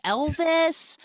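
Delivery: high-pitched, puzzled echo of a word; acting out utter confusion; baffled. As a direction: repeat it as a bewildered question. Retold baffled reply to babbling woman.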